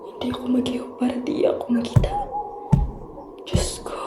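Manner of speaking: breathless hiding whisper; terrified whisper. Acted. Hiding from approaching figure. (nahadlok nga hutik nga nagatago)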